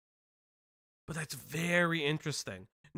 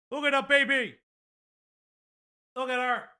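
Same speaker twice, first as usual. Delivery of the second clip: cooing; 8 semitones higher than usual. Real, not acted. Cooing at pet on baby cam.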